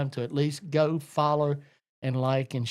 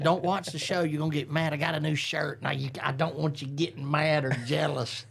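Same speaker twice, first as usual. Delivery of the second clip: teasing, laughing. Retold or imitated. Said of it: "I said".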